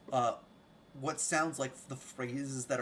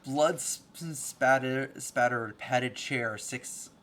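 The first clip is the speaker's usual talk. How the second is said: scene-setting narration; 5 dB louder, slower than usual. Acted. Game master describing the ruined library, scene-setting narration. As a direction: read out the grim room to the table.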